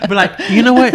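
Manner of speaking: laughing. Real, not acted. Laughing at review.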